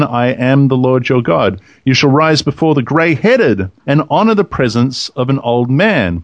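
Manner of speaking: scripture reading. Acted. Reads scripture aloud.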